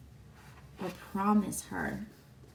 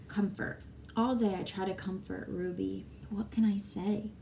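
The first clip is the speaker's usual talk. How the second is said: steady, clear read-aloud voice for the class; story narration. Acted. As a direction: read the chapter to the children. Teacher reads next chapter.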